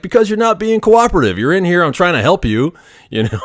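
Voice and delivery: retold heated scolding; exasperated reply. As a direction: lecture him hotly. Tech argues back.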